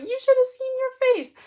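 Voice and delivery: gleeful demon tease. Acted. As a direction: squeal it out mocking his fright. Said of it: "the demon bursts out laughing".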